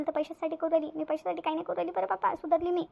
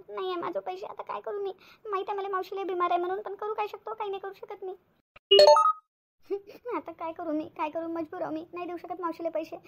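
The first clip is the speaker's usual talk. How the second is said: higher, tearful pleading on the phone; fake crying; 3 semitones higher than usual. Faking a tearful phone call so Rahul overhears, mock sobbing. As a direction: put on a weepy voice so he hears. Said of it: "काहून रडू राहिली तू?".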